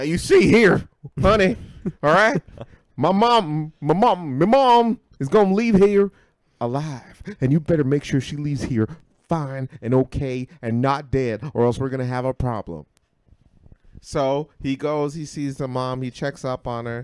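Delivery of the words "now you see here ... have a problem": loud put-on country accent all the way through. Retelling what a man said about his mom, in a country accent. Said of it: "I guess he had a country accent".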